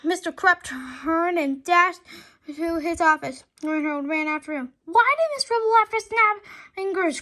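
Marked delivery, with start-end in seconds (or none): 4.8-7.2 loud desperate cry. A narrator's reading. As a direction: cry out in frustration. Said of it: "cried Harold".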